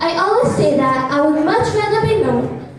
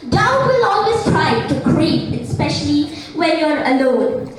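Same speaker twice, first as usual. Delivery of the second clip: slow, sing-song inspirational oratory; formal speech; slower than usual. Acted. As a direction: recite it like a school declamation. Declaims a motivational speech.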